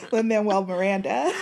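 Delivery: ordinary delivery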